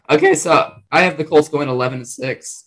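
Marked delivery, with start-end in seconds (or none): 0.1-0.3 voice crack. Real, not acted. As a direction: voice cracks briefly mid-sentence. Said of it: "Voice crack, bro".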